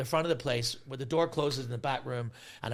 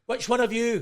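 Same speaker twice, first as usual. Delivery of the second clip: slow, raised and high demanding question; slow demand for the guilty one, louder and higher; stern demand; 10 semitones higher, 5 dB louder than usual. Retold or imitated. Demanding to know which one of them did it, slow and raised.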